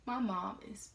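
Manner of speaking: slow, hushed whisper; whispering that mom is furious. Real, not acted. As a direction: drop to a tense whisper. Ominous aside about angry mom.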